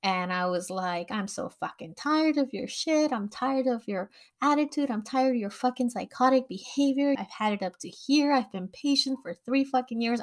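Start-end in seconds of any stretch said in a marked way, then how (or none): 1.1-10.2 replaying the blow-up with a raised pitch, not full volume; retold yelling. Venting years of anger at the harassing coworker, mild mock yell. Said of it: "I went in".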